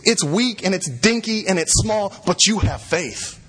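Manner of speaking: tender gospel assurance; gentle reassurance. Real, not acted. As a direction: speak it tenderly to the weak. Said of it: "the gospel application".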